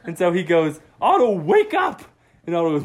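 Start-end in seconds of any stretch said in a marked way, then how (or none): 1.0-2.0 much higher, shouted; dad shouting at his dozing son; loud wake-up call. Acted. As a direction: yell to jolt him awake. Dad wakes sleeping Otto.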